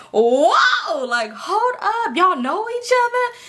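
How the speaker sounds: high, laughing disbelief; shocked laughing whoa. Retold or imitated. She's stunned her guests know each other, laughing high. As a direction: gasp it out between laughs, eyes wide.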